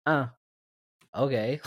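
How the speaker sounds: unimpressed, with a hesitant pause; a mild, nonplussed mock response; underwhelmed reaction. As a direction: react as if nothing much happened. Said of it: "it was like".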